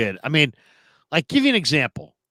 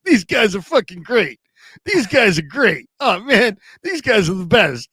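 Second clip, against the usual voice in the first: higher-pitched raving, lightly acted; imitated excited cabbie; 5 semitones higher than usual. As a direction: rave like a delighted cab driver, retold. Cab driver raving about radio show.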